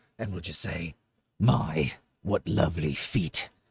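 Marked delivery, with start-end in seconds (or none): 1.4-3.5 gravelly, edgy put-on voice, lower, louder, slower. Speaker puts on a voice edgier than usual for one line: gravelly edgy voice. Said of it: "I need to get like that gravelly voice".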